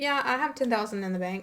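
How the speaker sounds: casual, nonchalant, offhand throwaway delivery. Demonstrating how to say an affirmation about money, nonchalant. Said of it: "I would say it very nonchalant".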